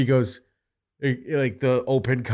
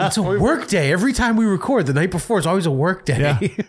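exasperated retelling; 6 semitones higher than usual. Retold or imitated. Retelling exasperated reply to Tim.

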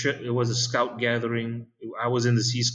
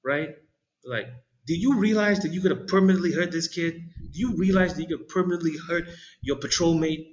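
higher, fast telling-off; mock scolding leader; 6 semitones higher, faster than usual. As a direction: scold him like an outraged troop leader. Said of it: "he looms over me like".

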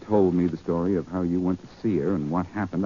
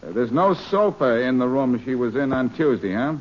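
brusque impostor cop, pitched up; posing as Faraday; 3 semitones higher than usual. Acted. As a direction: pass yourself off as the inspector. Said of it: "This is Inspector Faraday of the police".

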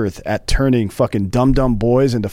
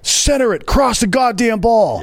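high ranting sideline coach, much higher; angry coach yelling; 12 semitones higher than usual. Pretend. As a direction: bark orders from the sideline, voice pitched far up. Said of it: "gonna be that coach in the red".

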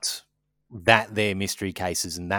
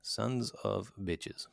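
muttered curse; 9 dB quieter, much slower than usual. Real, not acted. Muttered curse after snow news.

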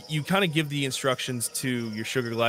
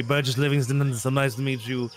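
posh explorer voice. Acted. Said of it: "You're rocking this guy".

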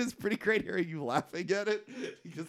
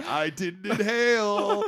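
laughing president quote; 4 semitones higher, slower than usual. Retold or imitated. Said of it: "then he's like".

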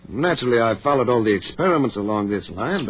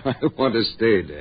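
laughing. Acted. Ed laughs while refusing.

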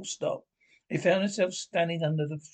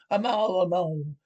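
war cry; 2 semitones higher, 3 dB louder than usual. A narrator's reading. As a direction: bellow it charging in. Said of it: "shouting his awful war cry".

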